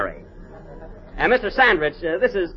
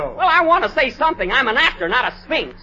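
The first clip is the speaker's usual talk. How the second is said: high, offended outburst; self-important complaint; indignant protest; 4 semitones higher than usual. Acted. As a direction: stand on wounded dignity. Actor protests his tiny part.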